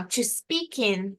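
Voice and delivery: slow, linked "to speak in"; no pause. Shown as a demonstration. Teacher shows students linking without pause, joined "to speak in". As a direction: glide the K of "speak" straight into "in". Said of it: "sem pausa".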